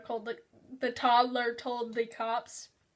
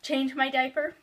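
put-on pleading toddler; slower than usual. Toddler asks, drawn-out please.

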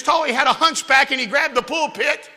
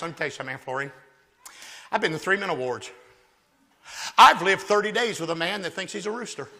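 lower, much softer aside to the aunt; leaning in, hushed; 4 semitones lower, 6 dB quieter, faster than usual. Retold or imitated. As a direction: tell her confidentially in church. Whispering to aunt in church.

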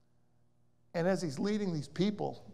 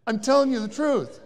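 louder, laughing through the words; 6 semitones higher, 7 dB louder than usual. Real, not acted. Preacher assures the church it's true, laughing. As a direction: insist it's true while still laughing.

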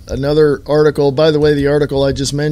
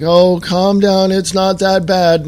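mock patronizing; 4 semitones higher than usual. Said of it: "patronizing me or whatever".

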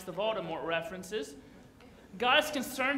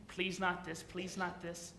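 mock pleading; 4 semitones lower, 7 dB quieter than usual. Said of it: "where would you be thinking".

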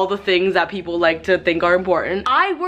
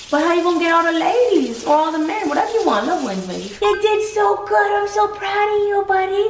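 high, excited praise voice for a pet; 9 semitones higher than usual. Real, not acted. Owner cooing high praise at her dog after his bath. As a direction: gush over the pup in a squeaky coo.

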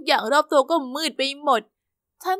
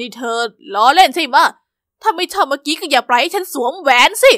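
put-on hurt boyfriend; 2 semitones lower, 4 dB louder than usual. Charlie hurt and indignant.

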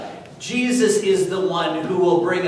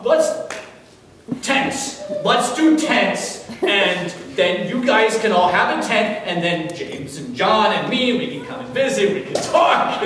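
excited babbling; 3 semitones higher than usual. Retold or imitated. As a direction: blurt out the plan, overexcited. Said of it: "Kinda like that".

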